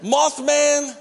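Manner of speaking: laughing. Real, not acted. Punchline with laugh.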